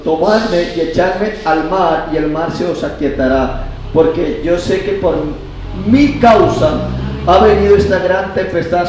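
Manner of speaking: loud, emphatic preacher's reading; scripture reading. Acted. Preacher reads Jonah's answer to the congregation, emphatic scripture reading. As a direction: read it out forcefully to the congregation.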